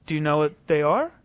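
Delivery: a pointed, pushy demand in an odd put-on voice; pushy challenge. Shown as a demonstration. Pressing a skeptic with a pushy challenge. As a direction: needle her with the question. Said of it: "I didn't say it like that".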